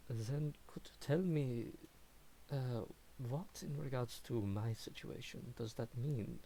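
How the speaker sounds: slow, soft polite inquiry; curious noble. Acted. Curious stranger asking the reader about his fate, softly. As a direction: ask slowly and softly, intrigued. NPC questioning the tarot reader.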